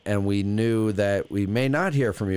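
smooth, low radio host voice. Acted. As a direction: talk like a late-night DJ. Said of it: "using some weird-ass radio voice right now".

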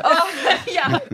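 high-pitched laugh breaking into the words. Real, not acted. Laughing at a co-guest's teasing about a relaxed life, high and helpless. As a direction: agree through real laughter.

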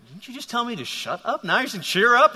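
lightly acted bewilderment; mock disbelief. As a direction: question a sudden change of tune. Bartimaeus reacts to the turnabout.

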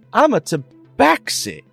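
indignant character voice. Acted. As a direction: snap back, offended.

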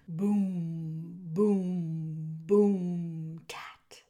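low, loud booms, a whispered tat; deep resounding booms ending in a tiny tat; drum imitation. A narrator's reading. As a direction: beat out a heavy drum with the voice. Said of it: "went the drum".

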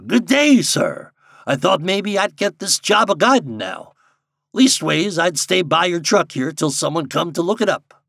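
lightly voiced rustic, high and loud; a touch of hearty backwoods courtesy; civil old guide. A narrator's reading. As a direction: offer help politely in country speech. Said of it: "touched his hat civilly and said".

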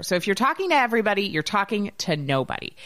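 saying it in a funny voice so it sticks. Retold or imitated. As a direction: rattle it off in a silly voice. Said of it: "when you say it in a funny voice".

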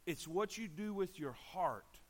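slow, measured, landing on "heart"; emphatic. Shown as a demonstration. Preacher emphasizing his point to listeners, slow and emphatic. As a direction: spell it out slowly toward "heart". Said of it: "I'll emphasize this".

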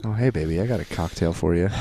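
put-on low, soft boyfriend voice; close warm intimate boyfriend. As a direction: croon it close to the mic like a boyfriend. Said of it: "Should I do that in the boyfriend voice?".

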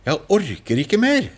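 high-pitched desperate plea into the dark; crying out. Retold or imitated. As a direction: call out like someone at the end of their strength. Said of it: "jeg roper ut i mørket".

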